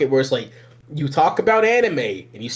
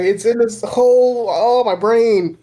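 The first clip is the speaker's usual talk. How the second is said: mind-blown awe; 7 semitones higher, 3 dB louder, slower than usual. Real, not acted.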